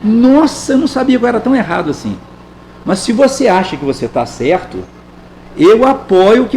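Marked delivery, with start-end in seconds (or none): 0.0-2.2 fast sarcastic mock surprise; mock-shocked ironic apology. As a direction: rattle off a fake confession. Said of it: "eu fui irônico".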